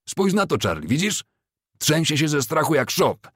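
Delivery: high-pitched scornful amusement; gleeful mockery. A narrator's reading. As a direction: show off the frightened captive to a friend. Ambrose mocks a frightened prisoner.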